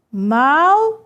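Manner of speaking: "Mausoléu" read as mau, zo, léu with pauses; syllable by syllable. Shown as a demonstration. Teacher showing students how to read it, syllable by syllable. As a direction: break "Mausoléu" into three separate beats. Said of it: "Veja como é que eu leio".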